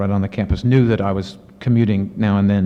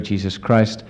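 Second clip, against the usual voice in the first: ordinary delivery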